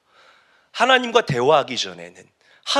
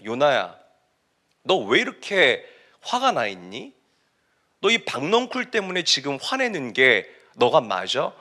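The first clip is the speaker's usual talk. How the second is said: God. Acted. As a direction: question him calmly, leaving pauses. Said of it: "하나님께서 요나에게 이렇게 말씀하십니다". (차분하게 타이르듯 묻는 목소리)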